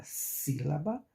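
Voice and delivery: "sílaba" with weight on the opening sí; stress on first syllable. Shown as a demonstration. Teacher using the word itself as example, stress on first syllable. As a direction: hit sí at the start of "sílaba". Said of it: "que pronunciamos mais forte é si".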